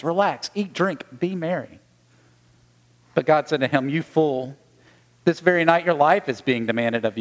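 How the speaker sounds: measured, formal proclamation of scripture; gospel reading. Acted. Priest reading the gospel to the congregation, formal proclamation. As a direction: read the gospel aloud to the congregation.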